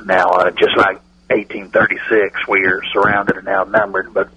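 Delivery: a hint of the Cowboys owner on a bad phone line; Jerry Jones impression. Radio bit, owner greeting the hosts, light folksy impression. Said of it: "let's welcome Jerry Jones".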